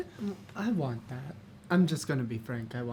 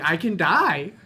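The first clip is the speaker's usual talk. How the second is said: put-on giggling like a kid; 4 semitones higher, 11 dB louder than usual. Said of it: "she starts giggling. Like, giggling".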